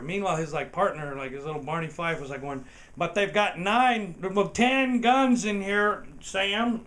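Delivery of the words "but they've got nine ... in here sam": mock nervous deputy. Barney Fife partner's whiny complaint.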